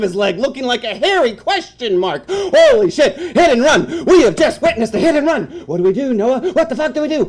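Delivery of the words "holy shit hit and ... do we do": high, loud, laughing alarm; half-laughing freak-out; laughing panic. Acted. Reacting to hit and run.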